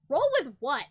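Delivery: unvoiced whispered question. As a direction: whisper it back, puzzled. Whispered reply to Raspberry.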